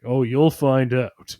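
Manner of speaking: slow, hushed warning; ominous caveman. Retold or imitated. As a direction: say it slowly, like a dark secret. Paranoid caveman answers Grog.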